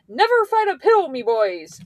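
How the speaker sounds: imitating a bad Irish accent; a quick jokey Irish lilt; mock Irish accent. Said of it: "Accent and everything included".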